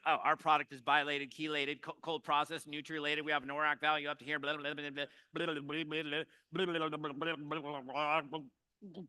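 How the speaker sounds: lightly mock a pushy rep reeling off jargon; scoffing saleswoman. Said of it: "she scoffed at me".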